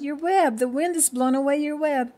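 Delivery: high, loud storybook alarm; alarmed cry. A narrator's reading. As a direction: cry out the bad news to the spider. Cricket alarmed at ruined web.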